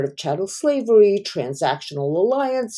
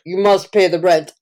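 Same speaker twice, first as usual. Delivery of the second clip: melodrama villain; 4 dB louder than usual. Retold or imitated. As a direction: threaten her like a stage landlord. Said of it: "vaudeville plays where you're like".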